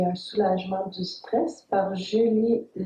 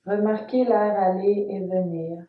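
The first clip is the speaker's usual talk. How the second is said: calm, measured Yoga Nidra guidance with long pauses; guided meditation. Acted. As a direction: guide the listener phrase by phrase, leaving space after each instruction. (voix posée de méditation guidée, entrecoupée de silences)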